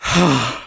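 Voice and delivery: deep breath. Acted. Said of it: "took a few deep breaths".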